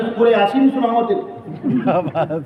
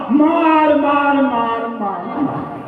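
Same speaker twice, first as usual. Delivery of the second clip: mock night shouting child, fading; 6 semitones higher, much slower than usual. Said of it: "پھر بیٹا چلانے لگا".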